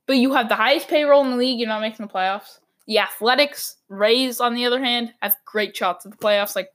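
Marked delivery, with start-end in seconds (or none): 5.2-6.7 hoarse, strained throat. Real, not acted. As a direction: voice giving out, hoarse. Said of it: "sorry, my voice".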